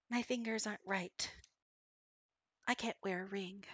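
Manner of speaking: soft, hushed cat mother. Acted. Mother cat telling the player she needs fingers, hushed. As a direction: confide quietly, almost whispering.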